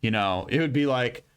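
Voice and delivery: ordinary delivery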